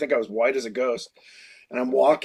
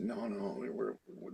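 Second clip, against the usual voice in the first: breathy whispered protest, barely there; too sick to argue, whisper it; feeble whisper; 6 semitones lower, 19 dB quieter, much slower than usual. Retold or imitated. Sick kid protesting to Phil, in a feeble whisper.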